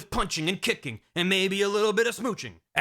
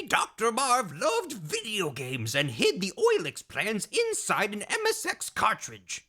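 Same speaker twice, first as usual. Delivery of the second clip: a hint of old doctor; 4 semitones higher than usual. Madnar explains the plans.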